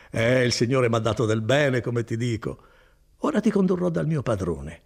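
lightly voiced kindly cousin, proud of his work; Bortolo. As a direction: warm and boastful, an easy hearty tone. Bortolo goes on. (Bortolo rassicura Renzo, voce bonaria appena accennata)

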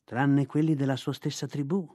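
ordinary delivery, nothing marked

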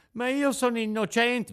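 put-on a scared boy protesting; frightened protest. A narrator's reading. Pinocchio protests his arrest, frightened.

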